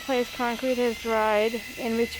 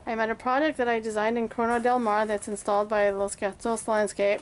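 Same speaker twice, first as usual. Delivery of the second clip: talking through a face mask; muffled voice behind a mask. Real, not acted. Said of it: "Hopefully you can hear me through the mask".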